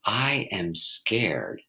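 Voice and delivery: very slow, trying the words on; "I am scared" drawn out; slow, tentative admission; slow, plain statement. Shown as a demonstration. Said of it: "As I try on the wardrobe of".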